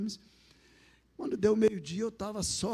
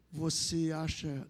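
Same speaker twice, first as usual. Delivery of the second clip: slow, measured voice from nowhere; lightly voiced, solemn voice of God; divine voice; 3 semitones lower, slower than usual. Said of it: "aquela voz falou assim pra mim". (voz divina, lenta e solene)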